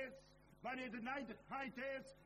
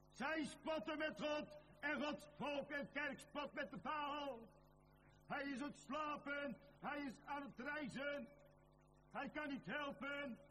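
mock taunt; 5 semitones higher than usual. Preacher retelling Elijah's taunt of Baal, mildly mocking. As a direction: jeer at the absent god.

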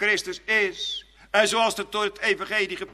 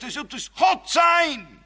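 hissing serpent promises; 7 semitones higher, 5 dB louder than usual. Acted. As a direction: sell godhood like a tempter. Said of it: "Sist hij dan en zegt".

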